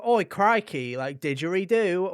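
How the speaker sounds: hammed-up stock Aussie, loud and high; mock Australian. Mocking how games fake Australians, hammed-up stock Aussie. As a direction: shout it like a cartoon Aussie. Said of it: "where some".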